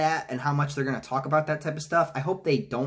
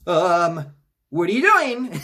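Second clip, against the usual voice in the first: high, loud, put-on puzzled voice with a laugh; confused Eddie; 4 semitones higher, 6 dB louder, slower than usual. Eddie questions Venom cowering from Carnage, a high, baffled laughing voice. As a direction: ask it baffled, pitched up and laughing. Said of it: "Eddie's like".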